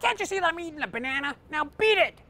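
monkey tells the woman to get lost; angry monkey. Acted. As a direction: snap at her like a cranky chimp. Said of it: "Mister Monkey goes".

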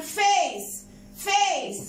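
"فيس" with the vowel as the English letter name A; long A sound. Shown as a demonstration. Teacher showing the silent-E rule, long A in "فيس". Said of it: "بتتكلم بصوت عالي بتقول".

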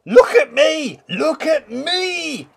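very high, loud show-off cry. Acted. Wolf showing off his loops, very high excited cry. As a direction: crow look at me while doing loops. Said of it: "he cried".

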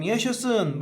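high, happy yaşasın; joyful cheer. Shown as a demonstration. Teacher showing joy, high happy cheer. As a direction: cheer it with delight. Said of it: "Bakın bir sevinç var".

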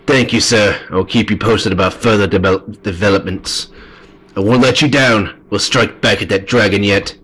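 earnest report to a lord; a hint of a dutiful blacksmith character; lightly voiced loyal craftsman. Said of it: "the voice I gave for him".

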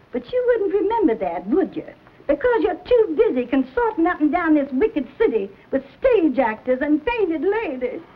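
crying reproach rising to a shout; tearful scolding. Acted. Mother berating her son for shaming the family, crying. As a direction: scold him through tears.

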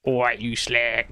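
mock London accent. Teasing a friend by speaking as him, London accent. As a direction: put on a London geezer accent. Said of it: "No, no, you're London".

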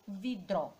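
"vidro" slowly split, vi-dro; sílaba por sílaba. Shown as a demonstration. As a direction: give each syllable of "vidro" its own beat. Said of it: "Já separando a sílaba". ("vidro" devagar, em sílabas: vi-dro)

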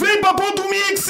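high, shouted shop-door announcer pitch; hard sell ad. Shown as a demonstration. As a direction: bellow it like a store promoter. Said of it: "fala um textinho".

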